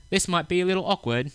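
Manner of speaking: put-on quoted Englishman with an English accent. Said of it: "he said in an English accent".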